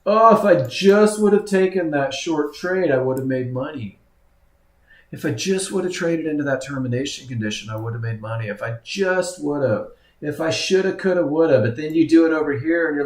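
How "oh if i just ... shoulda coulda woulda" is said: lightly mocking whine of a regretful trader; whiny trader. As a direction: start on a pleading "oh", then trail into mild whining. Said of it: "my whiny trader voice".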